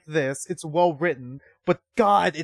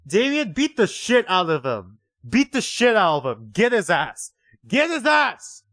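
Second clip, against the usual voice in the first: loud, rising hype urging a brawl; root for the bully to attack; egging on a fight; 4 semitones higher, 6 dB louder than usual. Real, not acted. Player urging Damien to beat Inko, loud and excited.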